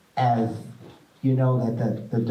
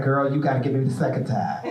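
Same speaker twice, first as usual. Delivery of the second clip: laughing tease; 2 semitones higher, faster than usual. Retold or imitated. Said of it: "I was like".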